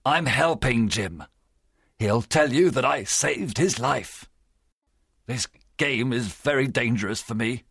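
trembling plea. A narrator's reading. Silver begs the doctor's help, mildly trembling. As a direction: plead your case with a touch of fear. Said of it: "Silver's voice trembled".

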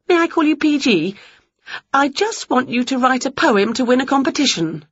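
lively high witch voice, quick; eager little witch; a bright excited witch; Winnie voice. Acted. Winnie asks.

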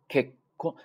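結婚 with ke caught at once before kon; held stop. Shown as a demonstration. Teacher shows the sound being caught, held stop. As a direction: cut ke short, hold, then kon in 結婚. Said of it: "立刻就把这个音收住了".

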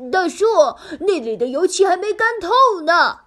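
loud high warning call. Acted. Piglet calls out warning.

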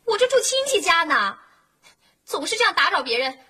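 tearful, angry scolding down the phone; upset complaint. Acted. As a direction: threaten them while close to crying. Tenant scolds renovation crew, near tears. (带着哭腔气愤地训斥)

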